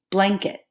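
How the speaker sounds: BLANKET split into two syllables; two separate chunks. Shown as a demonstration. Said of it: "Did you see how I said blanket?".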